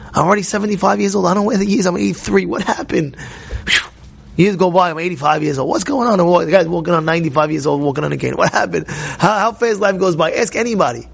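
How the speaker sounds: ordinary delivery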